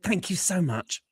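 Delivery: high, drawn-out, polite thanks; polite British dismissal. Retold or imitated. British team dismissing the singer, high slow courtesy. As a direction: imitate the panel's slow, lilting thank-you. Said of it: "and they said".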